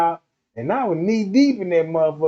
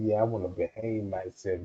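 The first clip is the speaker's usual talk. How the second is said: mock promise; 9 semitones lower, 8 dB quieter than usual. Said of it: "you told her".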